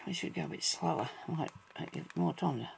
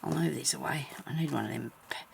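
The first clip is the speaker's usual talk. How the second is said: whispering. Real, not acted. Quiet crafting aside.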